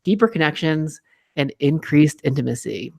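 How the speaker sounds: bright salesman ad read; chipper 1950s ad. Acted. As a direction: sell it like an old radio spot. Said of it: "read this like it's a script".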